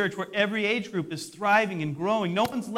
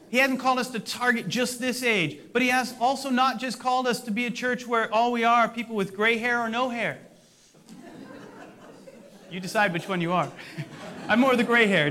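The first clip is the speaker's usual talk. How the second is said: laughing joke; 5 semitones higher, 4 dB louder than usual. Real, not acted. Joking about gray hair.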